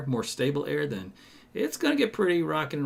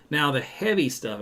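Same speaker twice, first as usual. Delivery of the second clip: heavy leaned on, a little higher and louder; stress on heavy; 4 semitones higher, 3 dB louder than usual. Shown as a demonstration. Weatherman to viewers, mock-emphasizing heavy on sprinkles. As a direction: punch the word heavy, half joking. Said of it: "I'm stressing the word heavy".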